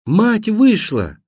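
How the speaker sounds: high, slow, stretched call; high, deliberate holler; shouting to be heard. A narrator's reading. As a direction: call it out to a deaf friend. Shouting answer to deaf friend.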